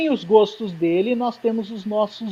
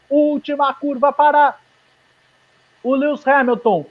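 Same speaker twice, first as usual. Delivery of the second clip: excited; 5 semitones higher than usual. Real, not acted. Final corners of the lap.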